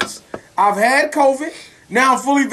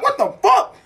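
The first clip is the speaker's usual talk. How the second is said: high startled yelp; shocked yelp; 13 semitones higher than usual. Retold or imitated. Reacting to a swab up the nose, high startled yelp. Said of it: "You're like".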